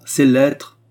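high, loud heated outburst; vehement cry. A narrator's reading. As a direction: cry it out in a burst of temper. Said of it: "cria la reine avec emportement".

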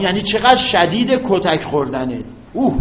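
ordinary talk, nothing marked

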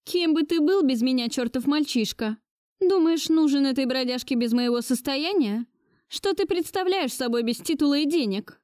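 put-on high, scornful old lady; contemptuous grandmother. A narrator's reading. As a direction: sneer at him, wounding. Grandmother voiced higher. (презрительная бабушка)

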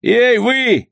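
high shouted call; shouting. Acted. The ugly lookout shouts to the bandits. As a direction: yell out to the deck. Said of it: "закричал безобразный урод".

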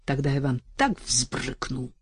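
hushed, spiteful whisper; gloating whisper. Retold or imitated. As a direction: whisper a sly threat. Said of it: "злорадно думала Настя".

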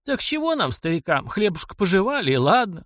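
put-on high-pitched, sheepish elderly voice; embarrassed old man. A narrator's reading. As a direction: brush it off awkwardly as an old man. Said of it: "смутился Варрава".

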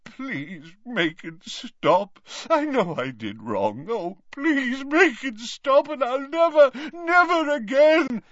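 high, slow, weeping plea; tearful pleading. Acted. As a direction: beg through tears. Dumbledore pleading in torment.

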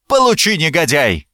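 high-pitched first word, dropping after; angry attack cry. A narrator's reading. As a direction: cry it out as you strike. Attacker lunges at the narrator. (злой выкрик при ударе)

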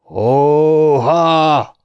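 high, long-held yell; hollered exclamation. A narrator's reading. Mike yells during the stone fight, drawn-out holler. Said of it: "üvöltötte Mike".

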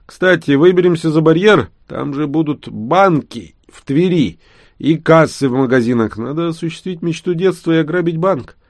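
mischievous youngster dreaming aloud; excited joking. Acted. Vanya jokes about robbing bank. (задорный юношеский голос)

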